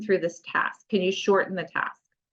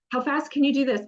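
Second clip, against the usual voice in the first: put-on higher-pitched, playful dare to a child; playful challenge; 7 semitones higher than usual. Parent racing a child to get dressed, playful. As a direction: turn it into a fun race. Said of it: "getting dressed a fun and silly thing".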